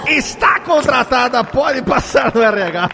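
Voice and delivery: loud, high mock HR boss; playful verdict. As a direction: announce the hire with glee. Host judges test, playful verdict.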